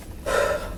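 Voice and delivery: long breathy exhale; sigh. Real, not acted. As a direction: let out a heavy sigh. Pausing in uneasy reading.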